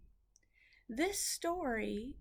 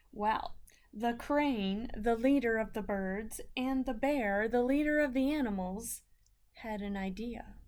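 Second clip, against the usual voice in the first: put-on reading to children. A narrator's reading. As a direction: draw the kids in, then hush. Teacher reads story aloud to class.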